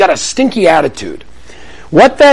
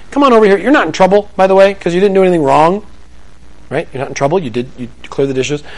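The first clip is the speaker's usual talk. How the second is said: gentle parent. Shown as a demonstration. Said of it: "opportunity to dive down and get some heart".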